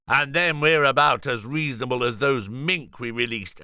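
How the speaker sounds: a barricaded vegan taunting the security men; defiant Julian. Acted. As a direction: dig in and refuse to budge.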